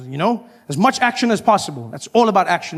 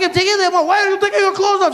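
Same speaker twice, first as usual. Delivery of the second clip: voices of the woman and guard; 13 semitones higher, faster than usual. Retold or imitated. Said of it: "She's like".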